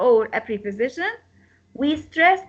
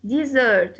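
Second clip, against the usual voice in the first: "Dessert" said di-ZERT; stress on second syllable. Shown as a demonstration. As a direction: lean on the sert of "Dessert". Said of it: "we, we stress".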